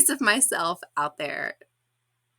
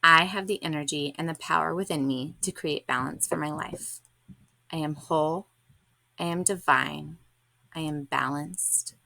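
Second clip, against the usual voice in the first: reading affirmations. Acted. Affirmations read to close.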